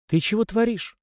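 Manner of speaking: lightly voiced sleepy girl. A narrator's reading. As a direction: ask it teasingly, girl in the dark.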